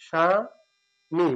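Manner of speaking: স্বামী drawn out very slowly; slow demo pronunciation. Shown as a demonstration. Teacher modelling স্বামী slowly for the class. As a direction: linger on স্বামী. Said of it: "ময় রস্বীকার হবে".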